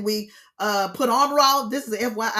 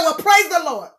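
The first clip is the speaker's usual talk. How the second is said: mock praise; 4 semitones higher, 5 dB louder than usual. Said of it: "I said".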